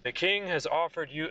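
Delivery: flat monotone announcement. Acted. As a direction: say it with no life at all. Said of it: "he says it very monotonely".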